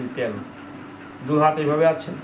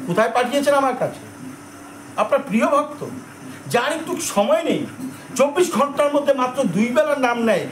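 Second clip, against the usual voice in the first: higher, aggrieved grumbling to the Lord; sulky sage complaining of the mud; indignant Narada airing his grievance; annoyed complaint; 4 semitones higher than usual. Acted. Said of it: "রাগ করছো কেন".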